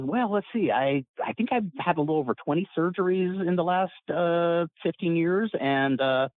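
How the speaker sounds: high, breezy, carefree recap; upbeat Jack Armstrong. Retold or imitated. The friend cheerfully listing twenty surgeries, high and breezy. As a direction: list surgeries like a kid with a new toy. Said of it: "sounds upbeat like a little kid".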